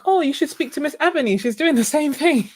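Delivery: high, quick, enthusiastic quote; eager retold suggestion. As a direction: act out an excited tip to a friend. Quotes own eager suggestion to friend.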